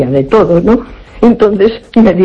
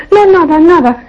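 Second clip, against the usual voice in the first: higher, evasive voice brushing it off; evasive fortune teller; 9 semitones higher than usual. Retold or imitated. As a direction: quickly dismiss it as if hiding something. Fortune teller hiding what she saw. (la echadora de cartas, evasiva, quitándole importancia)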